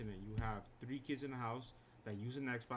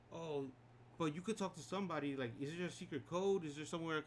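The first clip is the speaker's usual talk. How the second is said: higher, mock pleading customer voice; 5 semitones higher than usual. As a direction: lightly voice a hopeful customer fishing for a trick. Customer begging, voiced in story.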